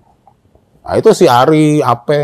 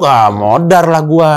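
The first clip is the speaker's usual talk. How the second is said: drawn-out, louder mock wail; mock dread; 2 semitones higher, 4 dB louder, slower than usual. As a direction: stretch it into a doomed complaint. Acted dread of trap opening. (mengeluh panik, dipanjang-panjangkan)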